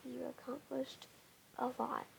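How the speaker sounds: soft hushed whisper; whispering on the phone. Real, not acted. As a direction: keep it down, mom's asleep. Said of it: "I have to whisper into the mic".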